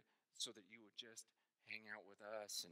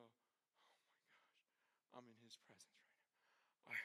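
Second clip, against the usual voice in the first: awed whisper; 21 dB quieter, slower than usual. Pretend. Imagined awe before God.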